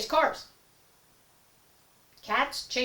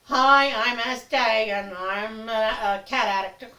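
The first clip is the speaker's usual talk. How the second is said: mock support group confession; 7 dB louder, slower than usual. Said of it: "Pets Anonymous group".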